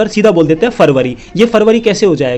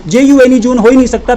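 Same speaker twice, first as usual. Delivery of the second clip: higher, exasperated protest; indignant; 5 semitones higher than usual. Real, not acted. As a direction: push back at the teachers. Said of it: "indignant correction".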